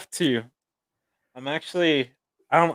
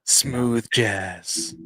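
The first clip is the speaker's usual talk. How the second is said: mock smooth-jazz DJ; put-on radio announcer murmur; 2 semitones lower, 4 dB quieter than usual. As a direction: slide into a laid-back station ident. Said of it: "With your radio voice?".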